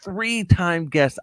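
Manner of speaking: slow, high, stretched announcer echo; drawn-out echo. Acted. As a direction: stretch it out like a hype man. Host echoes guest's phrase.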